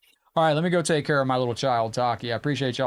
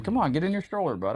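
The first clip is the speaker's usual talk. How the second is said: coaxing the cat; 5 semitones higher than usual. Real, not acted.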